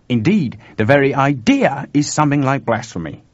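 emphatic, swooping character voice; animated Chuck explaining. Acted. Chuck explains the monks' belief to George, animated. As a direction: lay out the astonishing belief with relish.

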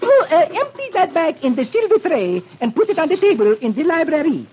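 high French maid voice. Acted. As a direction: coo like a flirty French maid. Maid instructs Beetle.

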